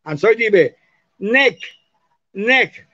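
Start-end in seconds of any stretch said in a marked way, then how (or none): 1.2-2.9 NECK ending in a hard k sound; strong final G. Shown as a demonstration. Teacher showing G placed last sounds strong, hard-ended "neck". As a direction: close neck sharply on a k-like final G. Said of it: "suena fuerte".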